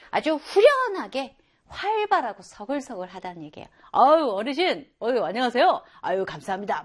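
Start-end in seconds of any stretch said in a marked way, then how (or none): 3.9-6.8 loud, bright greeting of a friendly person; cheerful outgoing person. Retold or imitated. Teacher acting a sociable person greeting an elder, cheerful. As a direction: greet an elder warmly and heartily. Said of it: "막 이런 사람 있잖아요".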